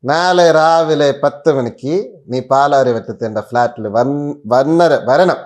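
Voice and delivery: slow, emphatic mock order; retold commanding caller. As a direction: imitate a friend laying down orders. Mimics him ordering a visit. (ആജ്ഞാപിക്കുന്ന മട്ടിലുള്ള അനുകരണം)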